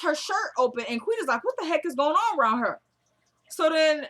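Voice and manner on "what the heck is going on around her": higher, disbelieving mock outcry; incredulous reaction. Boss seeing a shirt ripped open, incredulous. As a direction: voice someone baffled by what they see.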